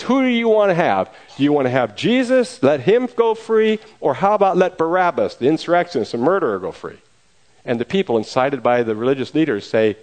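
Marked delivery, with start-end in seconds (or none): 0.0-7.0 calling out to a crowd. Acted. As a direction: pitch it to a big crowd, then settle. Pilate addresses the crowd.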